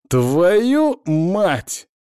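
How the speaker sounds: loud startled swear; shocked curse. Acted. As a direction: yell it in shock mid-fall. Falling, cursing in shock.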